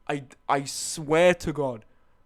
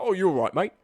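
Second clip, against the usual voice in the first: lightly imitated Cockney bloke; a hint of matey Cockney; Cockney accent. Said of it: "he's proper Cockney".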